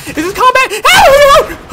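very high loud scream; panicked shriek. Real, not acted. Frantic mid-fight.

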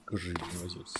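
talking through hiccups; words broken by hiccups. Real, not acted. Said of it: "Got the hiccups for some reason".

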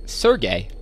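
SERGEY ending in a long "ay"; trying a pronunciation. Shown as a demonstration. Unsure of a target's name, trying Sergey as "sur-GAY". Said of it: "Is that how I say it?".

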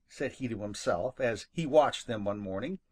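usual speaking voice

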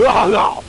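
mock cough, voiced "ah, ah"; imitated hacking noise. Shown as a demonstration. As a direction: act out the noise you hid. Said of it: "hear me go".

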